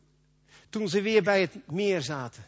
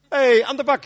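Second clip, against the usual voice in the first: loud, higher, hearty shout to get him moving; calling out; 6 semitones higher, 9 dB louder than usual. Acted. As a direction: rouse a lazy friend with a yell. Colleague calling out to Jan. (luid aansporend geroepen)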